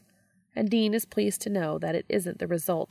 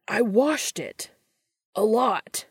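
distressed cry; 4 semitones higher, 5 dB louder, slower than usual. Acted. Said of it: "Dean cries".

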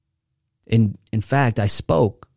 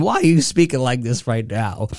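usual speaking voice

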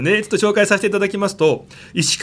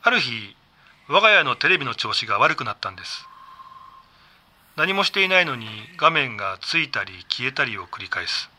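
spooky story narration; 4 semitones lower, 3 dB quieter than usual. Acted. Reads listener's ghost story.

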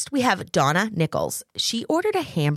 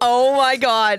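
slow drawn-out oh my God; amazed; 5 semitones higher, 5 dB louder, much slower than usual. Real, not acted. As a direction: stretch it out in disbelief. Reacting to funny meme.

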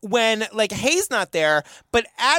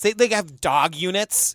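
ominous tone; 3 semitones lower than usual. Real, not acted. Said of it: "don't say it with that tone".

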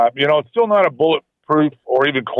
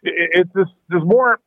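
phone line sound; over the phone. Real, not acted. Thanks for calling in.

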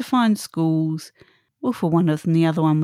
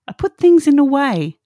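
raised, higher exasperated voice; mock scream; 8 semitones higher, 7 dB louder than usual. The body scolds the person who ignored its warnings, mock-screaming. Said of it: "it starts screaming".

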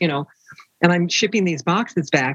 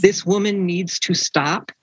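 slow, measured reading of a harsh letter; reading someone else's harsh words, drawn out; deliberate readout; slower than usual. Retold or imitated. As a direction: spell out each word slowly. Reads a harsh rejection letter aloud.

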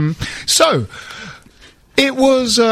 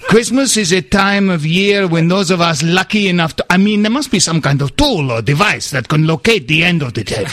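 put-on laughing through accent; 3 semitones lower than usual. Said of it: "by attempting the accent".

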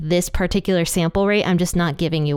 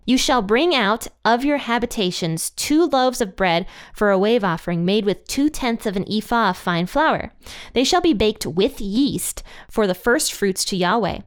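steady, measured Bible reading; scripture reading. Acted. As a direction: read the verses aloud solemnly. Reads Leviticus passage aloud.

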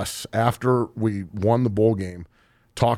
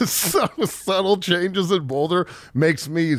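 laughing while talking; 7 semitones higher, slower than usual. Real, not acted. Laughing through the quote.

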